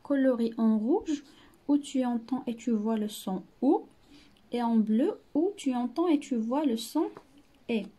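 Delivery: slow, deliberate reading to pupils; slow dictation-style reading. Shown as a demonstration. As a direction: read each word slowly for children. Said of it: "reading instruction slowly".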